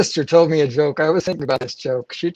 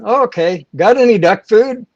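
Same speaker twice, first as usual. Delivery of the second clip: duck voice; 7 semitones higher, 8 dB louder than usual. Retold or imitated. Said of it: "he said".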